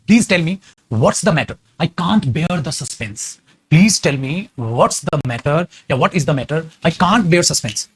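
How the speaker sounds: very slow, word by word English; slow dictation. Shown as a demonstration. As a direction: spell it out slowly for students to copy. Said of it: "क्या बनाना इसकी English". (धीरे-धीरे, शब्द-शब्द बोलकर लिखवाना)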